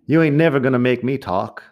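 a suspect spitting it back at the cops; defiant suspect. Acted. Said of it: "película de policías ... él dice". (sospechoso desafiante que se niega a hablar)

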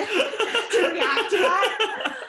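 laughing through the words, slow and loud; spluttering with laughter; giggling as she talks. Real, not acted. Laughing while explaining.

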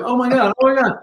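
excited gasp. Retold or imitated. Fans recognize him.

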